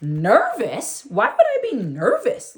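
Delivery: rising, indignant near-shout; mock indignant shout. Little girl denying nerves to her brother, indignant near-shout. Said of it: "Lil T J practically shouted".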